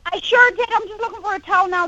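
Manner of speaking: put-on Irish-style accent. Chat show guest tries out the hosts' Irish accent. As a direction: try an Irish accent and fall flat. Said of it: "are you doing our accent".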